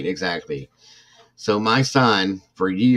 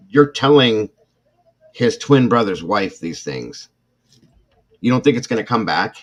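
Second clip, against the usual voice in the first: exasperated retort; 4 semitones higher, 7 dB louder than usual. Retold or imitated.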